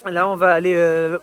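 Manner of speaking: speaking through chattering teeth. Real, not acted. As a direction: jaw shaking from the cold. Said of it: "putain j'ai les dents qui claquent".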